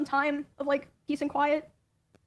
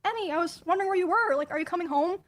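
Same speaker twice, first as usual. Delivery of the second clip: higher, lightly sugary fake-casual voice; sudden sweet innocent tone; 4 semitones higher than usual. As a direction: switch to an innocent act the moment someone's watching. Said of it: "deflated and changed his tone".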